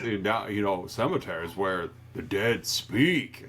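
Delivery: low, slow-ending neighbor voice; Judd. Acted. Host plays the neighbor explaining cemeteries to a child, low and grave. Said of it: "Judd gets right in her face".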